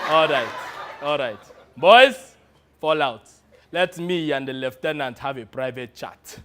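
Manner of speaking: put-on warlord general dismissing his boys; African warlord. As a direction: give orders as a mock militia boss. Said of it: "in his best impression of an African warlord".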